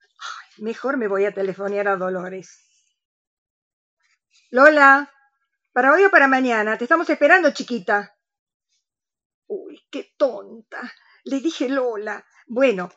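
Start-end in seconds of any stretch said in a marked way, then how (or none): 4.5-8.1 cheerful phone call to a friend; sweet phone voice to her friend; talking on the phone. Acted. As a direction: coax her over the phone.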